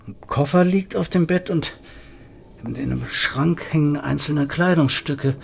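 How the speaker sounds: ordinary talk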